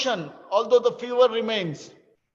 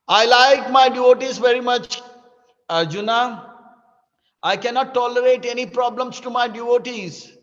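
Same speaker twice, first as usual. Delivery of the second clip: Krishna speaking; 4 dB louder than usual. Acted. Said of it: "And he says".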